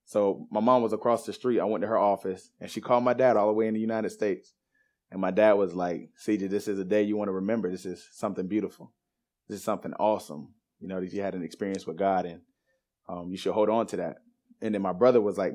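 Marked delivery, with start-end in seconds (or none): 6.2-14.2 softer, understated fatherly counsel; quietly impress it on him, retold; imitated reassuring dad. Dad to son after his experience with God, softly imitated reassurance.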